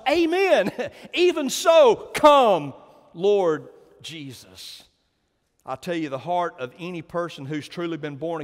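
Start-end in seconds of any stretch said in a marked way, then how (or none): 0.1-4.8 high, loud and exultant, laughing into it; church's joyful response. Acted. Preacher voicing the church answering Jesus, exultant. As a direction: cry it out like the whole church answering. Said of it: "here the church responds".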